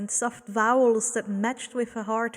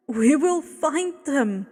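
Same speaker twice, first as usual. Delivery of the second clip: raised, earnest plea; pleading; 4 semitones higher, 5 dB louder than usual. Acted. Woman pleads with Abel, raised and earnest. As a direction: beg him to trust them. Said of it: "she pleaded".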